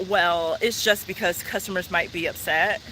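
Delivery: backpedaling clerk. Retold or imitated. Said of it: "His whole demeanor changes to".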